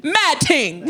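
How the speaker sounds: "Mad ting" in a light mock London accent, breaking into a laugh; London slang laughing. Topping the co-host's slang with a laughing London accent. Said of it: "I'm about to use their slang".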